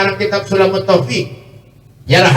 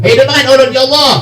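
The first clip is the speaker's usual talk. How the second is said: higher-pitched mock wail to God; tearful pleading; 7 semitones higher than usual. Preacher voicing the dead begging to live again, wailing plea. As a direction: cry out an acted plea, pitched up. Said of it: "dikubur menangis minta lawan Allah".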